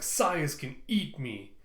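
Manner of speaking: slow, drawn-out defiance; cocky, slow comeback; defiant retort. Acted. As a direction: stretch it into a taunt. Tulsa defies robots under fire.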